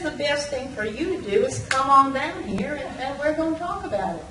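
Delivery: lightly voiced Southern accent, soft and friendly; a hint of a warm Southern officer inviting you in; Southern captain. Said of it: "sweet southern voice".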